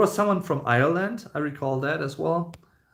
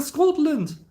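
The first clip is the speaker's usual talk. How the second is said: higher-pitched mock Scottish accent; put-on Scottish accent; 4 dB louder than usual. Streamer reading out a chat message, put-on Scottish accent. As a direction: say Scotland with a playful Scottish accent. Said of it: "accent you put on when you said Scotland".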